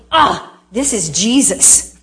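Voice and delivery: slow, drawn-out "Ah" of wonder; slow awed realization. Retold or imitated. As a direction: let the truth dawn slowly. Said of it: "it was the world going".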